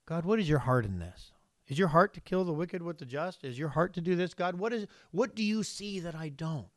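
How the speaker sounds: soft, asking God humbly; quiet humble plea to God; humble prayer tone. Shown as a demonstration. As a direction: pray gently, with an open heart, not demanding. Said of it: "That should be the tone of our prayer".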